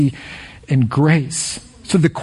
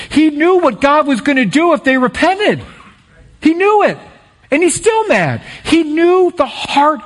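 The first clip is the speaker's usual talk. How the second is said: laughing; 10 semitones higher than usual. Real, not acted. Preacher to congregation about Jonah, laughing in disbelief. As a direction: laugh through it at the irony.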